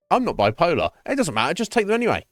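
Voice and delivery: mock pushy doctor. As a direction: play a careless doctor shoving pills at you.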